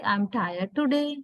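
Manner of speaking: TODAY said as too-day, first vowel not reduced; fully pronounced vowels. Shown as a demonstration. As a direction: keep the "oo" full in TODAY. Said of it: "Like that".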